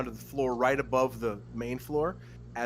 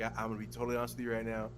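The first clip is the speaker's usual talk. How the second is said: fast confession; 4 dB quieter, much faster than usual. Retold or imitated. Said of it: "I was like".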